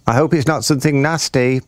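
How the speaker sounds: high, lilting bird voice; singsong bird. A narrator's reading. Bird worried by crocodile's secret plans, high singsong. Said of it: "sang the roly-poly bird".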